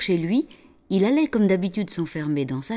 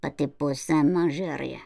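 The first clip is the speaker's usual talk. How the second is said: broken foreign French; 3 semitones lower, slower than usual. Acted. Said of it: "la sorcière lui dit".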